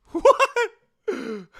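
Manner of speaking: high loud stunned what; shocked. Real, not acted. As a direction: blurt it out in disbelief. Shocked reaction to fight.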